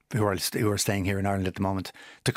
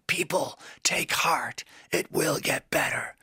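fiery, manic rallying cry, higher, half-whispered at times; imitating a rock singer; 5 semitones higher than usual. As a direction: channel a shamanic rock poet urging people on. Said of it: "in this amazing, fiery, kind of manic, shamanic, uh, moment".

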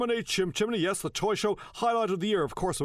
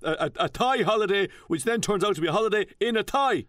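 lightly voiced chat show host; hint of a weary TV host; Ray D'Arcy impression; 3 dB louder than usual. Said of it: "fake Ryan Tubridy".

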